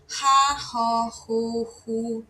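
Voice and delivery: "ra, ro, ru, ru" as weak breathy H sounds; weak aspiration. Shown as a demonstration. Teacher showing learners the Korean aspiration sound, weak puffed H. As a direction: let "ra, ro, ru, ru" out as light puffs. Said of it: "é bem fraquinha".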